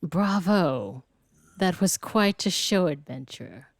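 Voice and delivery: lightly voiced refined noble, measured; narrating posh character. Gamer voicing a gracious noble NPC, measured and refined. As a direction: read it as a gracious aristocrat.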